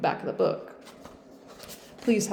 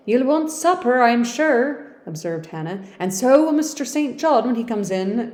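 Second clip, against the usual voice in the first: put-on old Yorkshire servant; 5 semitones higher, 6 dB louder than usual. Servant speaking.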